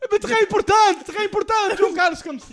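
high, loud hammed French accent. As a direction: insist like a French soldier. Continues French act.

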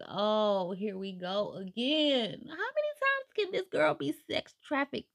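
high, drawn-out wail of disbelief; mock exasperation. Host fed up that the heroine gets taken, exasperated. Exasperated aside on repeated kidnapping.

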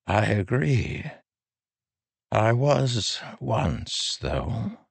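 put-on high, slow old man's voice; frail old man. A narrator's reading. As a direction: speak as a gentle aged king. Taravangian replies.

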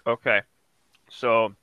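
talking while chewing; words round a bite of food; mouth full. Real, not acted. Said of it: "What are you eating?".

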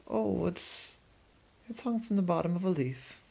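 little creature explaining; lightly voiced butterfly. A narrator's reading. Butterfly describes its cocoon.

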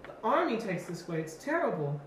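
put-on high-pitched old man voice; chatty old man. Old roadside seller warning travelers, high old voice. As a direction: play him fussy and high.

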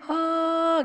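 high, drawn-out fake sob "haa"; mock crying wail. Preacher imitating the crying emoticon sent by chat, mock wail. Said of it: "Nangis itu nangis berdosa".

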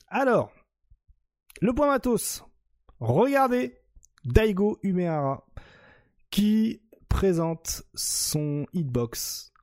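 excited announcer. Real, not acted. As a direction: announce it with energy. Host announces segment loudly.

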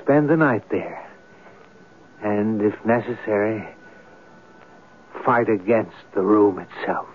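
measured, brooding radio narration; story narration. A narrator's reading. Writer narrates his plan to sleep in the room, brooding.

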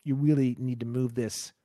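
mildly imitating a polite officer; understated gentle police request; gentle cop. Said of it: "really, really gentle".

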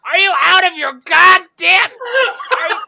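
high, loud, hammed-up tirade at the taco staff; mock outraged customer rant. Friend imagining the tantrum at Del Taco, high mock fury. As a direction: rant like a furious customer demanding a manager. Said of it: "So were you just like".

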